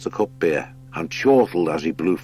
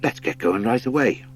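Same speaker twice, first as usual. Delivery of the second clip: higher, eager hare voice; 6 semitones higher than usual. Acted. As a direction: push to get going. Hare Blench speaks.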